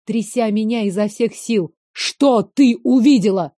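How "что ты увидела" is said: louder angry demand. Acted. Veyen demands what she saw, angry. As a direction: bark the question. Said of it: "рявкнул он".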